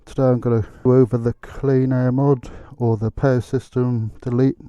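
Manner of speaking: muffled voice inside a motorcycle helmet; talking in a helmet. Real, not acted. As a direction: speak as if through a helmet visor. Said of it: "if I sound a little bit funny, that's 'cause I've got my, um, helmet on".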